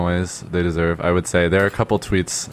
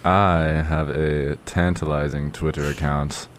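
deep radio voice; slower than usual. Shown as a demonstration. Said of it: "my deep radio voice".

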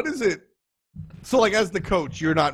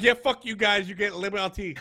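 put-on French accent; 5 semitones higher than usual. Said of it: "Do you like my French accent".

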